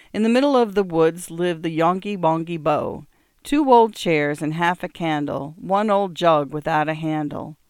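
put-on poem read aloud in an English accent. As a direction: recite to a child in an English accent. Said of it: "a pronounced English accent".

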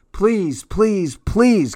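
put-on high, rising child's pleading; begging child. A narrator's reading. Cassie begging parents to go downstairs, high pleading. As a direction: beg like an eager little girl. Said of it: "Cassie said".

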